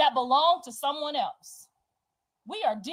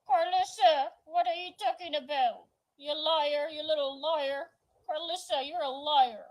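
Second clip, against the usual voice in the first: imitating mama's talk; 2 semitones higher, 4 dB quieter than usual. Daughter mimicking mama calling her a liar, mocking held-mouth voice. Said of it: "and she talk like this".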